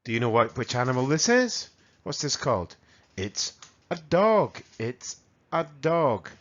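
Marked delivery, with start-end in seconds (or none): 3.1-6.3 slow, clear model word. Shown as a demonstration. Teacher modelling slowly for Spanish learners. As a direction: say it slowly for the class to copy. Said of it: "Listen and repeat".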